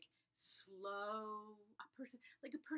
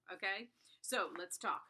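ordinary delivery

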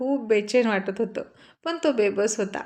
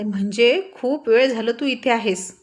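shouting. Acted. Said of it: "ओरडून म्हणाले".

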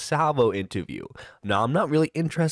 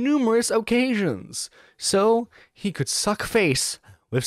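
Cholo voice; 4 semitones higher than usual. Retold or imitated. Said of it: "I wish I could do the Cholo voice".

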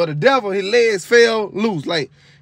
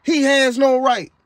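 demon protesting; 4 semitones higher than usual. Retold or imitated. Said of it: "that demon kept saying".

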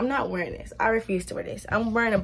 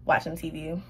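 whispering; 3 semitones lower, 5 dB quieter than usual. Real, not acted. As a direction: sly whisper. Joking aside about priorities.

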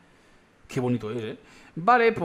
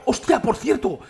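high, loud burst of realization; sudden excited exclamation; sudden surprise; 8 semitones higher, 5 dB louder, slower than usual. Real, not acted. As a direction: blurt it out as it hits you. Suddenly remembers something exciting.

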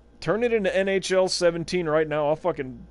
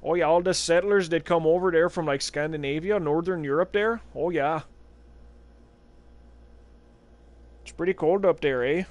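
lightly voiced Fargo Minnesota accent; mock Minnesota local, easygoing; a touch of Minnesota accent. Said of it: "that is a pretty heavy accent".

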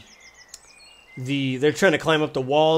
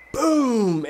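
drawn-out, higher boom noise; imitated massive boom; 8 semitones higher than usual. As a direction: voice a big explosion. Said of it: "you hear just a massive boom".

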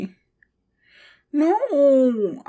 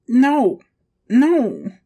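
louder, insistent protest; loud denial; 6 dB louder than usual. Acted. Little one denying the wet accident, loud protest. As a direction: refuse it outright, stamping.

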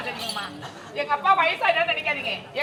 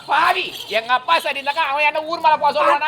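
indignant outburst; 5 dB louder than usual. Acted. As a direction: scold him for insulting father. Daughter angry at insult.

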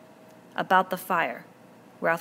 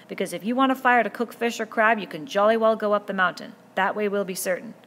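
a higher, louder shout over the row; shouting back; 4 semitones higher, 8 dB louder than usual. Acted. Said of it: "Ralph shouted back".

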